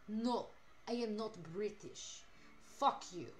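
put-on, indignant Russian accent. Accused of sounding British, streamer protests in a Russian accent. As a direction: take offence in a mock Russian accent. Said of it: "You're not Russian either".

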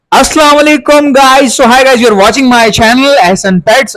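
high, very slow announcer-style hello; channel intro greeting. Acted. Vlogger welcoming viewers to his channel, high and slow. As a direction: stretch out the welcome like a show opener.

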